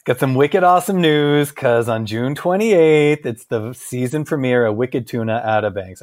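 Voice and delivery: put-on a playful touch of Boston accent. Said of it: "would not have a Boston accent".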